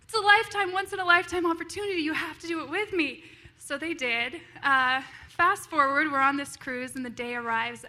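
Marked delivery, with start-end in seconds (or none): 0.0-3.2 pleading excitement. Retold or imitated. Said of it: "And I said".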